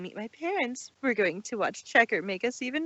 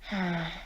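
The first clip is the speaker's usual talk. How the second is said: sigh; 5 semitones lower, 5 dB quieter than usual. Acted. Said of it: "Trixie gave a sigh".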